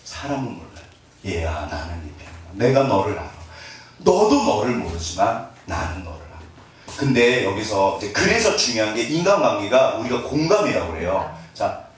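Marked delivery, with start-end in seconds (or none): 1.2-7.0 a hint of a gentle heavenly father; God's tender voice. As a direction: reassure a child as God would. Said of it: "누구 말씀이실까요? 하나님".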